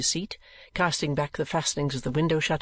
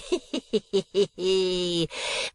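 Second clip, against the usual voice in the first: put-on long fiendish old miser's cackle; gloating cackle; 5 semitones higher than usual. A narrator's reading. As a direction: cackle in drawn-out mockery. Gride gloats over his rival.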